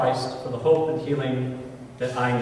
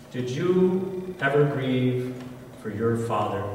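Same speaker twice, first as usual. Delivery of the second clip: gentle question; 2 semitones lower, 5 dB quieter, slower than usual. Retold or imitated. Minister's gentle question retold.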